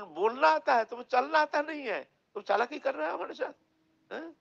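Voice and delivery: high, loud and heated, speeding up at the end; angry accusation. Acted. Brahmin scolding the idol for pretending it can't walk, high and heated. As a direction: accuse him of tricking you, voice climbing.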